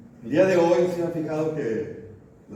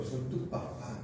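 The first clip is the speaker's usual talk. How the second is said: whispered, much softer "Soy tu papá"; tender whisper; 12 dB quieter, slower than usual. Shown as a demonstration. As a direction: breathe it like a secret to a child. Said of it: "uno dice que es como papito". (susurrado, tierno)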